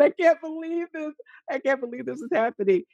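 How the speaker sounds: incredulous cry of disbelief; retold outrage. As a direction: replay the outburst high and fast. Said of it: "I was crying".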